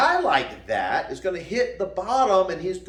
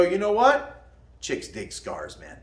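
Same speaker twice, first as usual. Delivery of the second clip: cocky quip. Retold or imitated. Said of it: "And you can go".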